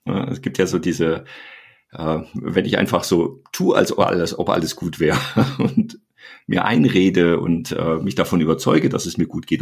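talking around a pen held in the teeth. Shown as a demonstration. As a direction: speak with a pen clamped between teeth. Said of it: "ich nehme jetzt einfach mal so einen Stift zwischen die Zähne".

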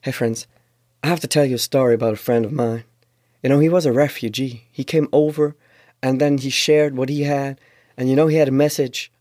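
lightly voiced English stage preacher; imitating the preacher. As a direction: mimic a smooth preacher telling his story. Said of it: "dann fängt an". (leicht nachgeahmter Prediger auf Englisch)

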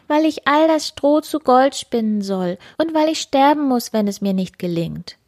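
the miller's daughter explains her plight, mildly sad; despairing daughter. Acted. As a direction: plead your hopeless situation.

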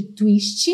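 "twist" with an added vowel after the T, "tuísti"; Brazilian pronunciation. Shown as a demonstration. Teacher showing how Brazil names the dance, "twist" ending in a vowel. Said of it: "colocar um som de vogal depois das consoantes".

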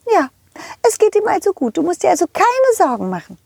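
squeaky high cartoon horse calling out. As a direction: play a cheerful high-pitched pony. Rosa the horse speaks. (hohe quietschige Pferdestimme)

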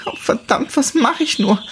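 she spirals into panic; rising panic. Acted. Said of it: "sagte sie immer wieder zu sich selbst".

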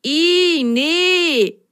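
high yuck with a grimace; disgusted. Acted. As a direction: pull a face and refuse. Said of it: "verzog Himmelblau das Gesicht".

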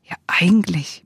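breathy whispered aside. Retold or imitated. Looking back on life, whispering the realization to oneself.

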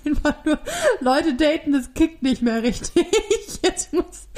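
laughing. Real, not acted. Embarrassed confession, laughing.

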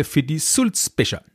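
Sulzbecher set apart and clearly emphasised; stress on Sulzbecher. Real, not acted. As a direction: lean on the word Sulzbecher. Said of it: "Ich betone an dieser Stelle". (deutliche Betonung auf Sulzbecher)

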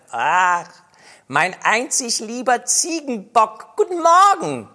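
very high, rising cooing greeting; mock sweet greeting. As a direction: coo it up to her mother. Greets mother fondly.

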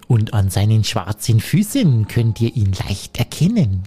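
stretched-out warning; mother goat. Acted. Continues mother goat's warning.

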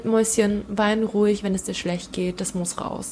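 a mild imitation of a tender mother; tender comfort. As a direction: soothe the child gently, dropping away. Mother comforting crying child.

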